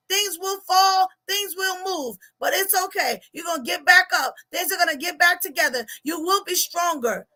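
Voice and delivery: rising sermon cadence; preaching. Acted. Life coach preaches to viewers about getting back up, preaching. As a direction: preach it with building conviction.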